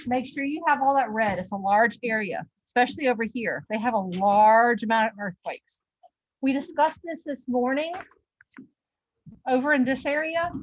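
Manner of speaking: winded after climbing stairs; puffing, catching breath between phrases. Real, not acted. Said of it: "getting some air after that walk up the stairs".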